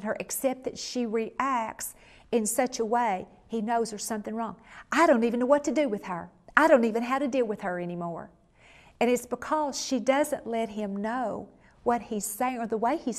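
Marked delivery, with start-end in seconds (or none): 4.9-8.3 fast, exasperated outburst; exasperated husband. Retold or imitated. Husband venting about his wife, fast and exasperated. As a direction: rattle it off as a husband at a loss.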